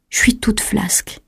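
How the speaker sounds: soft, slow, half-whispered; weak and limp. A narrator's reading. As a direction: let it out limply, with little strength. Sick Chloé too weak to stand. (d'une voix faible, lente et molle)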